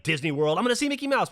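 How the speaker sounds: lightly mocked high excitement; imitated child's excitement. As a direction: pitch climbing into a giddy kid voice. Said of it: "excited, like".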